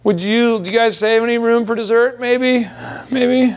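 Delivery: high, timid mock-apologetic waiter; hammed-up sheepish waiter pushing dessert; weak, apologizing ask. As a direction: shrink away as you offer dessert. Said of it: "in a weak, apologizing way".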